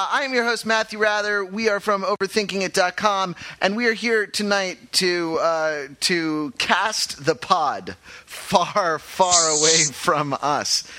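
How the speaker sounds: lightly voiced spaced-out surfer; laid-back surfer host; surfer dude voice. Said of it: "Crazy Surfer Dude".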